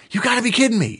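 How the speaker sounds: disbelief. Retold or imitated. A high I reacting at work, mock incredulous slang. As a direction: toss it off like casual slang.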